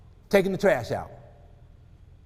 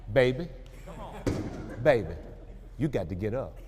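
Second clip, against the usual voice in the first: gentle wake-up; 6 semitones lower, 6 dB quieter than usual. Retold or imitated. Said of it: "Just come in and say".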